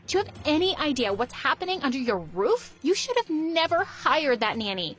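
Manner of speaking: high, urgent daughter voice bursting in; a spoiled daughter waking her mom in alarm; Bella's alarmed outburst. Acted. Daughter bursting in to wake her mother, high and urgent.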